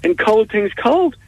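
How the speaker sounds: high, slow explaining; patient explaining shopkeeper. Acted. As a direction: spell it out slowly to a simpleton. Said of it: "And he says".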